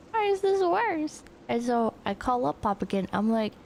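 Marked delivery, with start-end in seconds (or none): 0.1-1.2 higher, slower, baffled; high exasperated repeat. Retold or imitated. Mock-baffled at the car that got worse. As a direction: throw the question up high in disbelief.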